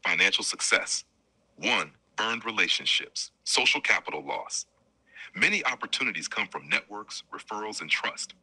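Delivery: calm assistant voice reading an answer; measured robotic life-coach read. Acted. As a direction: read it like a smooth chatbot narrator. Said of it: "strong black man siya".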